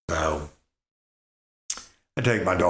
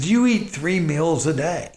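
lecturing dad; 8 semitones higher, 3 dB louder than usual. Retold or imitated. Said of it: "I said".

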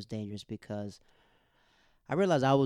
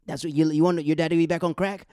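angry yell; 6 semitones higher, 10 dB louder than usual. Retold or imitated. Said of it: "he cursed out his son".

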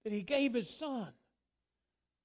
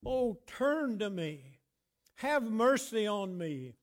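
slow, drawn-out plea; crying out; 2 semitones higher, slower than usual. Acted. Preacher voicing David begging God for mercy, slow cry. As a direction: stretch the words in an appeal to God. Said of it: "David cries out and says".

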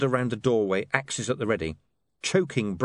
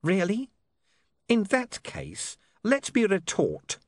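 mocking sneer; 8 semitones higher, slower than usual. Pin mocking before threat.

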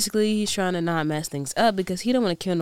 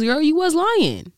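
incredulous call-out; 11 semitones higher, 6 dB louder than usual. Real, not acted. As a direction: call her out, half laughing. Gossiping friend calling out a lie.

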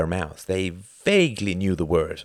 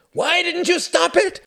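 high-pitched, loud outburst of anger; furious scream; 6 dB louder than usual. A narrator's reading. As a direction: scream it in outrage at your father. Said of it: "screamed Klaus, shaking his father's shoulders".

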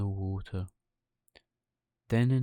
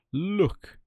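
whisper; 8 semitones higher, 4 dB louder than usual. Acted. Geppetto points out fish.

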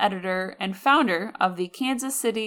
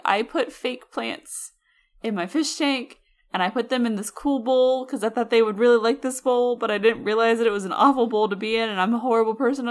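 imitating Jenna; 3 semitones higher than usual. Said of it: "Jenna being like".

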